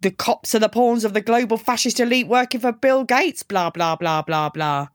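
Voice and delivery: dismissive imitation of a conspiracy rant; mock parroting. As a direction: mimic his rant, then tail off into droning blahs. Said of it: "I thought you'd be all".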